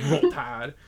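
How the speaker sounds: imitated Southern drawl, disbelieving; mock New Orleans drawl. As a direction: echo it like an offended Southern driver. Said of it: "The Southern drawl was just out".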